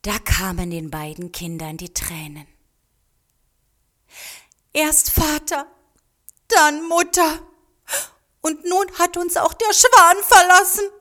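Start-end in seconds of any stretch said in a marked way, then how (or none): 4.7-10.9 Mariko. A narrator's reading. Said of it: "sagte Mariko".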